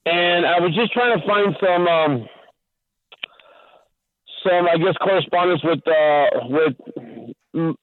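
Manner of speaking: radio show caller. Real, not acted. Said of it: "your voice is somewhat distorting".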